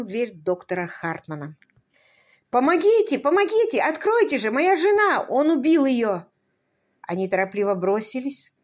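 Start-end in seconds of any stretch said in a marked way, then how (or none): 2.5-6.2 high, loud, desperate shouting for help; panicked cry for help. A narrator's reading. Husband begging the doctor through the door, panicked shout. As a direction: pound on the door and scream for rescue.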